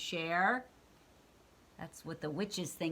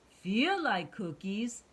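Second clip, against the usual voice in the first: monster voice; 3 semitones higher, 4 dB louder, slower than usual. Acted. Cookie Monster speaks.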